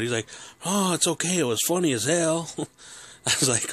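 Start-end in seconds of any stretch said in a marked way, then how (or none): 0.6-2.5 higher, louder cheerful reassurance; jolly father forgiving his son; amused dad. Retold or imitated. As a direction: brush it off, tickled.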